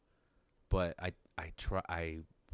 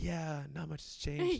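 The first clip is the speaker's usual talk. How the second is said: deadpan joke; 8 semitones higher, slower than usual. Retold or imitated. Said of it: "I was like".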